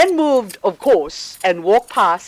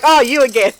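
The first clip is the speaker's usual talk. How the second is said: casual greeting; 6 semitones higher, 3 dB louder than usual. Retold or imitated. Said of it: "You know, like".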